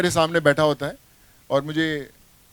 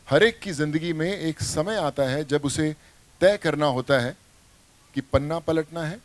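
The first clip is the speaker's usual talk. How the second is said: film dialogue delivery; 3 semitones lower, 3 dB quieter than usual. Acted. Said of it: "So, the line said".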